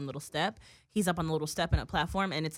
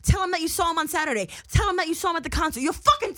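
retold badgering; 8 semitones higher, 4 dB louder, faster than usual. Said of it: "he just kept saying".

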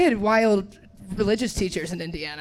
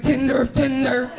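mock meltdown; slower than usual. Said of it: "Not me having a meltdown".

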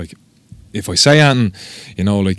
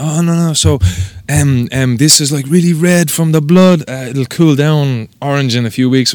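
higher-pitched voice making excuses; imitated tattooist; 6 semitones higher, 4 dB louder than usual. Tattooist explaining away the red ink, high imitated excuses. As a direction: mimic her hasty reassurance.

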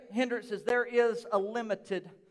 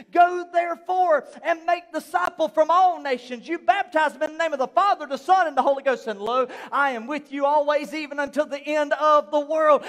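proclaimed scripture, a bit louder; scripture quote; 3 dB louder than usual. Retold or imitated. Pastor quoting Jesus' great commission, proclaimed. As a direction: declare the verse like a proclamation. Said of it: "I read it last week".

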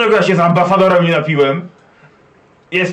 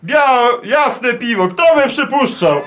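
put-on drunk dwarf; 6 semitones higher, slower than usual. Player voices the drunk dwarf.

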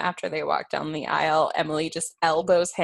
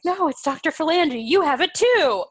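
higher, pushy denial; insistent fake doctor; 8 semitones higher, 4 dB louder than usual. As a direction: brazenly stick to the lie. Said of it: "She's like".

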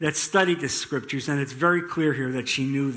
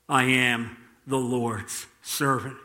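humble obedience; 5 semitones lower, slower than usual. Acted. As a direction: answer humbly, lowering and slowing the voice. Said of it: "in the humble, obedient response".

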